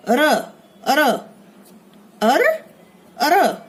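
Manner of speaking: र and अर said slowly one by one; अर repeated, r drawn out each time; sounding out r. Shown as a demonstration. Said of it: "पदेन रूप में होगा". (र और अर अलग-अलग धीरे बोलें)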